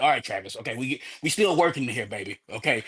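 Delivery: low aside to a partner; John Cena, brushing off. Retold or imitated. Wrestler pushing Travis back mid-match, quietly dismissive. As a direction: lightly imitate a quiet, placating brush-off. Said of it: "John Cena kinda pushed him back".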